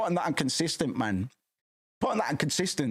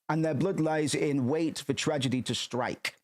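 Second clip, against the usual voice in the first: slow, ominous reading voice; dramatic reading; slower than usual. Acted. Reading a dark passage aloud to viewers, slow and ominous. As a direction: read it slowly, building dread.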